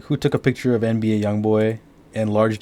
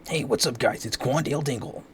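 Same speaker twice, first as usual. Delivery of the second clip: higher, put-on announcer greeting; radio announcer impression; 4 semitones higher than usual. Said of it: "some radio ass announcer".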